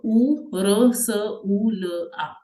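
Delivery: ऊ, र, स, ऊ, ल, आ as separate German letter sounds; sounding out letters. Shown as a demonstration. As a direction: say ऊ, र, स, ऊ, ल, आ one sound at a time. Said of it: "ऊ की साउंड मुझे ये पता है". (अक्षरों की ध्वनियाँ अलग-अलग बोलते हुए)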